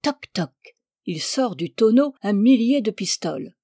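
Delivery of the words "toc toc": two crisp spoken knocks; knocking sound. A narrator's reading. Duchess taps a barrel with a hammer, imitated knocking. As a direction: imitate a little hammer tapping twice. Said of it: "prit un petit marteau et frappa".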